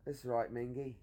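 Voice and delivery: easy British slang accent. Shown as a demonstration. Showing off to one who can't, British accent. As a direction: keep the British accent going on "mingy". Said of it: "I can't do that".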